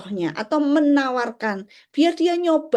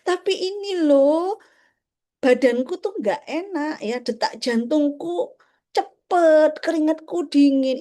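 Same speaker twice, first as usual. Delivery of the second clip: put-on higher, slow voice of a puzzled child; confused child; 4 semitones higher, slower than usual. Confused child explaining to the parent, higher and slow. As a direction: plead like a child who feels unwell. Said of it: "Mereka bingung kemudian".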